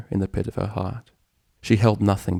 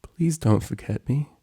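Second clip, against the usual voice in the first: sad plea; 6 semitones higher than usual. Acted. Acted sad farewell plea.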